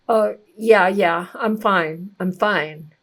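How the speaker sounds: hint of a rattled driver saying she's fine; brushing it off. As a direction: play the shaken driver insisting all is well. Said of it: "you can tell because of the look on their face and their body language and the tone of their voice".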